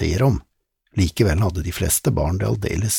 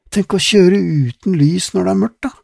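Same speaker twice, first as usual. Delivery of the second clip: put-on high, louder girlish voice; girl's voice; 12 semitones higher, 6 dB louder than usual. Lizzie wonders about the unlit car, high girlish. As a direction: wonder aloud like a young girl.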